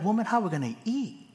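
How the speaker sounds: high, fast mock exasperation; husband's mock panic at wife; exasperated outburst. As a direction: fire it off high and quick.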